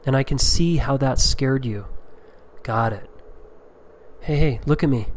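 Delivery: put-on soothing, coaxing voice to a scared child; calm the frightened kid, gently; gentle reassuring father. Shown as a demonstration. Father soothing his scared child after yelling, tender and calm. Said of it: "here's an example of what I say to my children".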